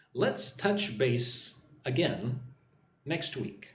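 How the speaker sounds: slow, careful drill voice; slow model phrase. Shown as a demonstration. Teacher drills the phrase slowly for viewers to repeat. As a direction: spell out each word slowly for learners. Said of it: "Listen and repeat after me".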